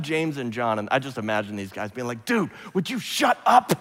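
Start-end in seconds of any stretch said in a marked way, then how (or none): 2.2-3.7 higher, exasperated imagined disciple; exasperated mock plea. Disciples to a babbling Peter on the mountain, exasperated. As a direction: act out a fed-up friend cutting someone off.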